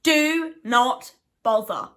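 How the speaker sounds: slow, mock emphatic read; all caps shout. Vlogger reading a reviewer's all caps warning, mock emphatic. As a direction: give each word full caps weight, slowly. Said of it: "And then in full caps".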